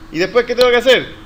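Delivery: loud prompting question to a room; quizzing the class. Real, not acted. Teacher asks students for the following step, loudly prompting. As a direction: project the question to get students answering.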